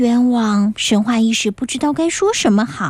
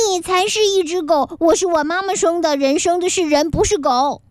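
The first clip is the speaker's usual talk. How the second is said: put-on higher, quicker indignant boy; huffy retort; 4 semitones higher than usual. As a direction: snap back offended. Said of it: "气呼呼地回答". (被骂成狗的男孩气呼呼地顶嘴)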